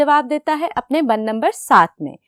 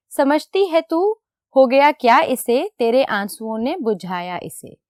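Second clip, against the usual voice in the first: poem recitation. Shown as a demonstration. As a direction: read each line of the poem with care. Teacher recites the poem stanza.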